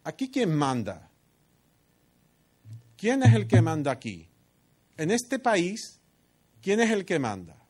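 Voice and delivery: Jezabel taunting. Acted. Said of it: "Le está diciendo".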